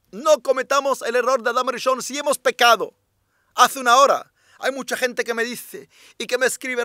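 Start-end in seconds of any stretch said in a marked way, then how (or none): 0.1-2.9 firm repeat. Shown as a demonstration.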